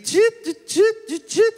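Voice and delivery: very high mechanical chirps; robot noises. Pretend. Doctor as computer's robot body, high mechanical chirps. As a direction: beep like a little robot.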